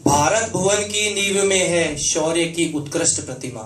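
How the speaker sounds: measured, rhythmic Hindi verse delivery; stately stage poetry with lingering line endings; poem recitation. Acted. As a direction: recite patriotic verse with each phrase deliberately shaped. Recites own patriotic poem.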